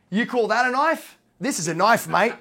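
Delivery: lightly voiced outback hero, mock tough; a hint of a swaggering bushman showing off his knife; Crocodile Dundee impression. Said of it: "Mick Dundee".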